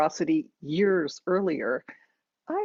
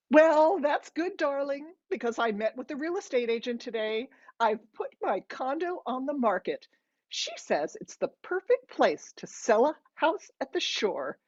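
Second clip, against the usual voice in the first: high, sing-along mom on the phone; chatty mother; 7 semitones higher than usual. A narrator's reading. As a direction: breeze on happily in a higher mother's voice.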